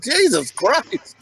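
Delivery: slow, drawn-out Jesus Christ; exasperated sigh. Retold or imitated. Wife fed up with his antics, slow exasperated. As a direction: let it out slowly, fed up.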